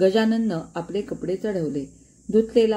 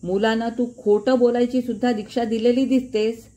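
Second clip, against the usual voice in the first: raised, heated dismissal; angry shout; 4 semitones higher, 3 dB louder than usual. Acted. Father dismissing Gajanan in anger, higher and louder. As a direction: throw him out in a fury, voice pitched up. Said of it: "ते ओरडले".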